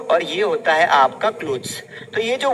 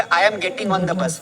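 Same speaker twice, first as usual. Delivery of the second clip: slow model; 2 semitones lower, much slower than usual. Shown as a demonstration. Teacher modelling sentence.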